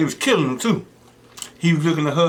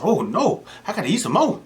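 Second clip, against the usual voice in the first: made-up Zach line; 5 semitones higher than usual. Retold or imitated. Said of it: "He ain't say that".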